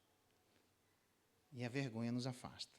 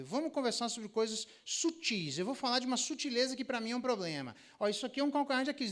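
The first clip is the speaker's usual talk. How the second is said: higher, louder earnest spouse confronting; mock spouse, higher and louder; acted spouse; 8 semitones higher, 5 dB louder than usual. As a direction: play the spouse bringing up a sore point. Spouse raising a touchy issue.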